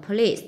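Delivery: "police" stressed on LICE; stress on second syllable. Shown as a demonstration. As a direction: lean on the last syllable of "police". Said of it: "nhấn âm hai". ("police" nhấn mạnh âm tiết thứ hai)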